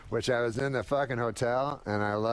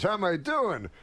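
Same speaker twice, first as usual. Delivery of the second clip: Rodney Dangerfield; 5 semitones higher than usual. Retold or imitated. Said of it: "And Rodney goes".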